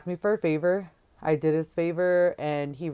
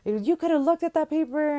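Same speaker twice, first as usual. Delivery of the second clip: high, louder scornful dismissal; defiant retort; 10 semitones higher, 4 dB louder than usual. Retold or imitated. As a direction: snap back that it's stupid. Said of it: "I'm like".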